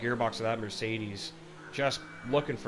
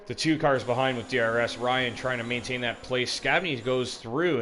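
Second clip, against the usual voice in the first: excited race call; 4 dB louder than usual. Real, not acted. Live race call, cars overtaking.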